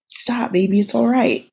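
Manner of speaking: gentle soothing reassurance. Acted. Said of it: "Steve soothed".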